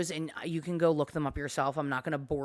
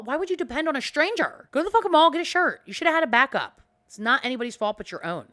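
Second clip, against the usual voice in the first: high, loud exasperated yelling; furious outburst; 8 semitones higher, 6 dB louder, faster than usual. Real, not acted. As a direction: blow up at her to go buy a shirt. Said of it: "I am getting myself all worked up".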